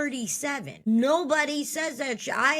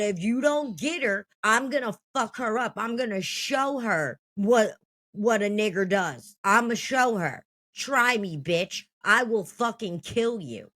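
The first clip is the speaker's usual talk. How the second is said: retold angry threat. Teen threatening the girl who slurred her, mild mock rage. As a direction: relive going off, but stay near own voice. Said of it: "I went off and I said".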